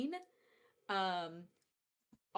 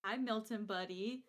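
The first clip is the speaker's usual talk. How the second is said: gentle. Acted. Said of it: "gently, like, very slowly approach".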